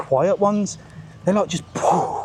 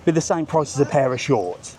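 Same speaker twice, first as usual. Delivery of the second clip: outraged question. Retold or imitated. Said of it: "I said".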